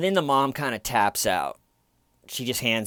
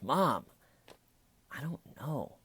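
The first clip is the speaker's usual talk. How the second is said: annoyed; 5 semitones higher, 4 dB quieter than usual. Retold or imitated. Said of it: "And just annoyed".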